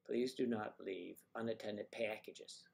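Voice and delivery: put-on slow airport announcement in a Chicago accent. Airport announcer at O'Hare warning travellers, in a Chicago accent. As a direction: draw it out in a mock Chicago accent. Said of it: "I love the accent".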